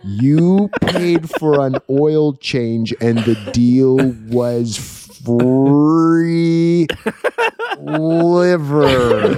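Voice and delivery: put-on very slow, careful Chinese accent. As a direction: spell it out slowly in a Chinese accent. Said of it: "taking it really slow so that he didn't mispronounce".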